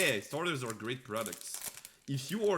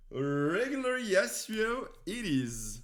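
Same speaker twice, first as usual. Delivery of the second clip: mock resigned; 7 semitones higher, 5 dB louder, slower than usual. Real, not acted. Repeats after bait reveal.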